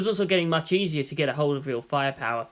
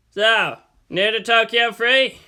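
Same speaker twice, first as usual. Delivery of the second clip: conversational; 6 semitones higher, 6 dB louder, slower than usual. A narrator's reading. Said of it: "he asked conversationally".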